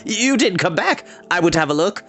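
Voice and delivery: breezy bard, rattled but game. Acted. Bard Fluter explains.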